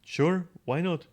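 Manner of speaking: high, slow sarcastic drawl; dry mocking sarcasm. Real, not acted. Sarcastic reaction to story change.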